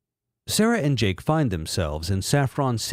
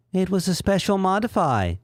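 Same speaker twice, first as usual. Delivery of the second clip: Umbreon voice; 7 semitones higher than usual. Acted.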